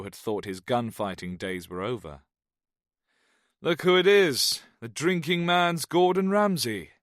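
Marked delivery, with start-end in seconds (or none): 3.6-6.9 Welsh man voice. Acted. Jones greets old friend loudly.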